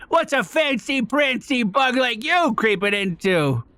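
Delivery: a hint of a cheeky thief; sly thief voice. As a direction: needle the visitor slyly. Voices thief fox NPC.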